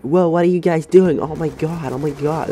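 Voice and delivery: high-pitched, badly faked Canadian teacher going mental; bad Canadian accent. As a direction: imitate an outraged teacher in a poor Canadian accent. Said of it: "That was a shit accent".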